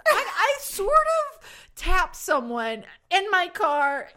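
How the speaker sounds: high, drawn-out halting admission; sheepish confession. Retold or imitated. Driver phones police about the bump, sheepish laughing confession. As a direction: confess it slowly, half laughing.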